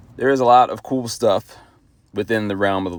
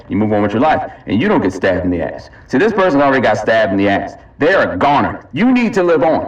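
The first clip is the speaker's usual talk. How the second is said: ad read. Acted. Announcer selling the Never Help app to bystanders, punchy ad. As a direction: sell the app like a pushy ad.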